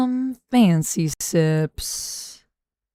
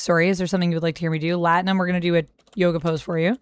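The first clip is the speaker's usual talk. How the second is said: ordinary talk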